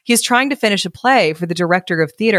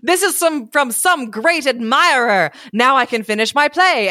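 happy; 6 semitones higher than usual. A narrator's reading. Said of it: "he looked quite happy".

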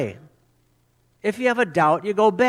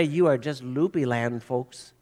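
mock scorn; 7 semitones lower, 3 dB quieter than usual. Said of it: "You don't say".

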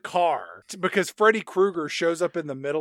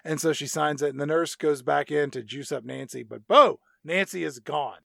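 ordinary talk, nothing marked

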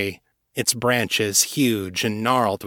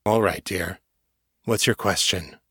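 soft; 3 semitones lower than usual. A narrator's reading. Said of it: "He answered softly".

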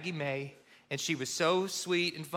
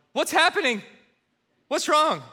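much higher and louder, panicked questions; alarmed mom; 10 semitones higher, 7 dB louder than usual. Retold or imitated. Mom overhearing the call, panicked and high. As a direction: cry out in alarm. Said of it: "Mom's like".

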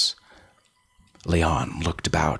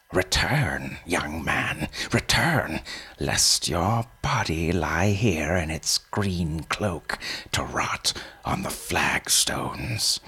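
put-on old man voice. Old man warns Leon.

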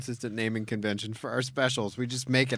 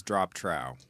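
sultry murmur; 7 semitones lower, 6 dB quieter than usual. Retold or imitated. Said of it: "when a woman says".

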